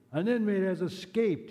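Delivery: high mock shriek of a furious commandant; a hammed-up Nazi commandant shouting. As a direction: raise the pitch, furious officer. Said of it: "he shrieked".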